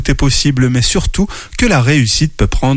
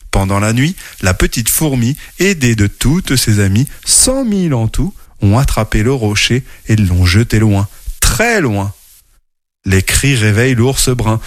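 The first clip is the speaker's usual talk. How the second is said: lively storybook narration with character voices; reading to children. A narrator's reading. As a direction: tell it like a bedtime story to kids. (lecture d'histoire pour enfants)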